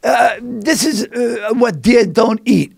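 slow, lightly voiced old man; a hint of an old stranger. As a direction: do the old guy, slow and polite. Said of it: "this old guy comes to me".

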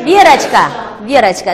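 Верочка twice, slowly; pronunciation demo. Shown as a demonstration. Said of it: "这都是硬辅音结尾的".

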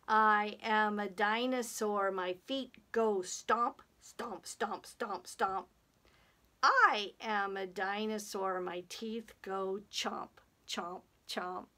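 measured chant, slowing at the end; children's action rhyme. Pretend. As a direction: chant it in steady beats for children to follow.

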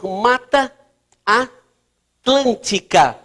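MATA ATLÂNTICA very slow, split by pauses; dictation pace. Real, not acted. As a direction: spell out "Mata Atlântica" chunk by chunk for note-takers. Dita o nome enquanto escreve. ("Mata Atlântica" ditado bem devagar, com pausas)

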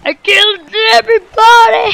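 high, loud gloating; excited victory shout; triumphant boast. Real, not acted. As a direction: crow about the win. Boasting after winning.

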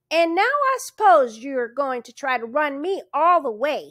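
grumbling, put-upon complaint; sour. A narrator's reading. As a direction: constable grumbles at the man in the yellow suit, sour. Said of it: "he said sourly".

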